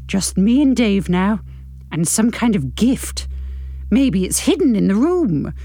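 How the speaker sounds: measured novel-reading voice; story narration. A narrator's reading. Narrator reading a novel to podcast listeners, measured narration. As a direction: read the story out with care.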